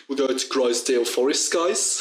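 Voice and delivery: light imitation of a London teacher; mock the tutor's London voice; a hint of a London accent. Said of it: "I love that accent".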